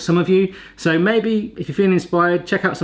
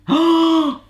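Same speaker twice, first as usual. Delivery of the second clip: surprised gasp; 13 semitones higher, 3 dB louder than usual. Real, not acted. Gadget finally works, surprised.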